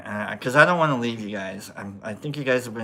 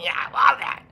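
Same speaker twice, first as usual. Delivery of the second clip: much higher-pitched mock girlfriend voice; imitated delighted girlfriend; 14 semitones higher than usual. Girlfriend loving how he says Annie, imitated high and delighted. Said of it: "She's like".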